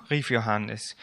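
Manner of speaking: lebhaft erzählend vorgelesen, lauter als sein Gespräch; erzähl es wie für Kinder beim Vorlesen; Vorlesen aus der Kinderbibel. A narrator's reading. Reads children's Bible aloud. (lebendige Kinderbibel-Lesung)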